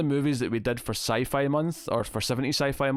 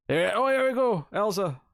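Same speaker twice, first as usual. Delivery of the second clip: excited; 10 semitones higher, 3 dB louder than usual. Real, not acted. Sponsor name finally appears.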